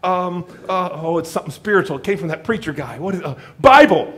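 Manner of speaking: loud frantic guesses at the donkey; mock yelling. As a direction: fumble for the magic word in a panic. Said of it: "started yelling at the donkey".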